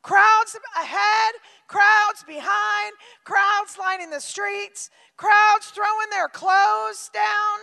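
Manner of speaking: slow, loud, drawn-out lines; slow loud preaching. Acted. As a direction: paint the crowd big and slow. Preacher painting the crowd scene.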